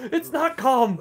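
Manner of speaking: loud laughing retort. Real, not acted. GM laughing, loudly correcting himself about the calm voice. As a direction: crack up while shouting it back.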